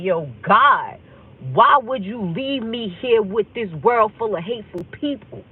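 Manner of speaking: loud, pleading reproach to God; retold anger. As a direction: cry out to God in hurt, mild anger. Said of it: "I got mad".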